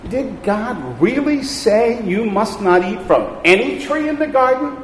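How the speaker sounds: sly serpent. Acted. Serpent's words read from Genesis.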